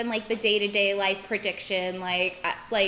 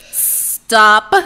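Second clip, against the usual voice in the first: loud flat hard no; firm refusal; 16 dB louder than usual. Pretend. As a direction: shut them down firmly. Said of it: "the sound you would make when someone asks".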